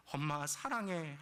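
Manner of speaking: slow, drawn-out "I love you" to Mom; tender retold declaration. Daughter hugging her cursing mother, slow declaration of love. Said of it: "하고 말했어요".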